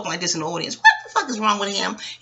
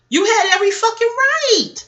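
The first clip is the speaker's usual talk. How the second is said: high and loud, leaning on right; loud emphatic support; 12 semitones higher, 5 dB louder than usual. Real, not acted. Telling Jennifer on Basketball Wives she was right, loud. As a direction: defend her at full volume.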